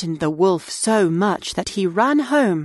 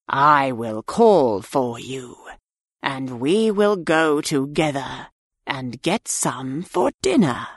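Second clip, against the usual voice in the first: sly wolf voice; 5 semitones lower than usual. A narrator's reading. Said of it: "wolf tempts pig".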